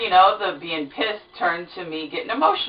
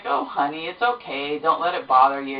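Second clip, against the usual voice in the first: soothing husband. Retold or imitated. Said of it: "he's like".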